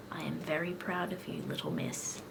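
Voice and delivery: soft, low and gentle praise; lightly voiced doctor, hushed and soothing. Doctor praising the little girl, soft low tone. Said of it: "he said in a low tone".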